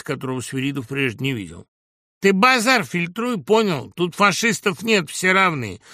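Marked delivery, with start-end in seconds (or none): 2.2-5.8 loud, slow, raised rebuke; shouted warning. A narrator's reading. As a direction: warn him off forcefully. Bystander shouts down a heckler. (громкая угрожающая отповедь)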